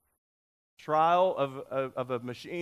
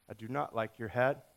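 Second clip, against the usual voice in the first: lightly voiced dog, pitched lower; unimpressed yellow dog; 5 semitones lower than usual. Yellow dog answering her every time, unimpressed. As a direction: drop low for a mild refusal. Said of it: "every time he says".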